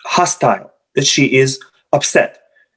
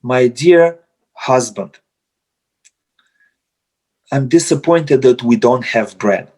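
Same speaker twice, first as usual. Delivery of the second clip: gentle disappointment; 3 semitones lower than usual. Retold or imitated. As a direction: say it kindly instead of blaming. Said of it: "If you say instead".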